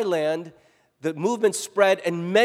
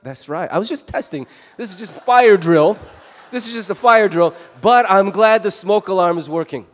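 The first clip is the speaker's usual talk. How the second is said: smug fake nonchalance; 6 dB louder than usual. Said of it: "And you're like".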